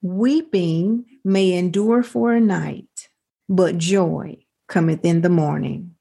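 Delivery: slow, measured recitation of the verse; scripture reading. Acted. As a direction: read the verse like a closing blessing. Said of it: "my last scripture says".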